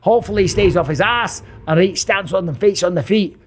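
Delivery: hammed-up Scottish brogue; bad Scottish accent. Commentator hyping Paul Craig, in a bad Scottish accent. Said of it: "That's my bad Scottish accent".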